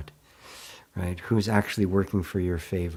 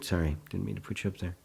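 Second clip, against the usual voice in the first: ordinary talk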